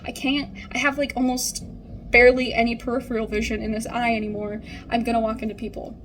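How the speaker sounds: half laughing, half fed up with her; exasperated. Retold or imitated. Telling the nurse she needs eyeballs, exasperated and laughing. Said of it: "And I was like".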